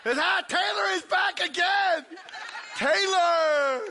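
high, loud, laughing call to the back; laughing shout. Real, not acted. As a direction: shout the name through a laugh. Spots engaged man, laughing shout.

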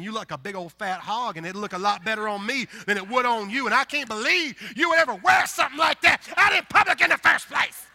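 builds from plain to a high, loud scornful shout; spiteful thought rising to an outburst; catty inner voice. Retold or imitated. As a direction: inner voice turning into a scornful yell. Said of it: "she's thinking".

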